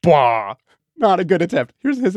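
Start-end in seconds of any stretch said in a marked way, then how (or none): 0.0-0.5 dinosaur voice. Shown as a demonstration. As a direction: try a big beast's call. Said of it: "my attempt at this dinosaur sound was".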